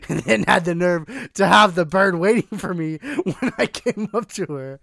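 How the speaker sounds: loud, indignant protest; heated, exasperated tirade; worked-up rant. Real, not acted. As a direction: cut in loudly, refusing to drop it. Refuses to drop the rant.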